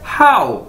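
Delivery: हाउ said like English how; Chinese hǎo. Shown as a demonstration. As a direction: model हाउ cleanly. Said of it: "इसको बोलना कैसे है". (हाउ, अंग्रेज़ी how की तरह)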